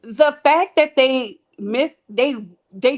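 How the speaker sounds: catching breath between words. Real, not acted. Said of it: "out of breath".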